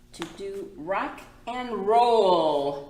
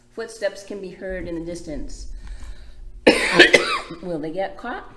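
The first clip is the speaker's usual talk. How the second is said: put-on reading to children; 4 dB louder than usual. A narrator's reading. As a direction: lively, clear picture-book read. Reads picture book aloud.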